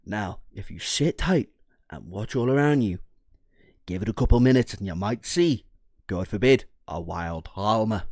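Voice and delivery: lightly voiced wildlife narrator, slowing down on a wild Alma; hint of a hushed safari guide spotting prey; mock nature documentary. Telling chat to wait for an Alma, in mock documentary narration.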